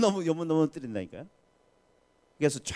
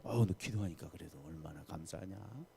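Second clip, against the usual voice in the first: low, soft coaxing murmur; softly voiced, indulgent inner excuse; 6 semitones lower, 5 dB quieter than usual. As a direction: soothe as a quiet thought in the head. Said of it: "그러면 속으로".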